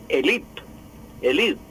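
élite said the French way, stress at the end; French pronunciation. Shown as a demonstration. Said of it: "con la pronunciación francesa, es decir".

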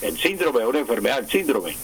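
"síndrome" as SÍN-dro-me; esdrújula stress. Shown as a demonstration. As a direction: keep the accent on the first syllable of "síndrome". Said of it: "palabra esdrújula".

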